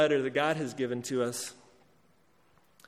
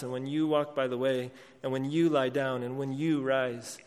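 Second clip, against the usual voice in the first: every "you" leaned on and lifted above the words around it; the word "you" singled out again and again, driving the command home to each hearer; emphasis on you. Acted. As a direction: hit each "you" as if pointing at the listener. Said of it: "you've obviously heard my emphasis on the word you".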